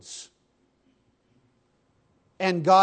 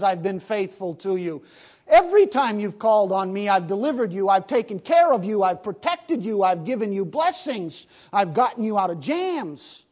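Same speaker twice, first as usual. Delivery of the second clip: voicing God, building; 2 semitones higher than usual.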